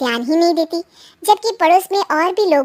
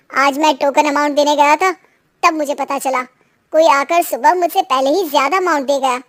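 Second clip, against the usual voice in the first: lightly voiced dejected son. Son explains to mother how he lost the shop, mildly dejected.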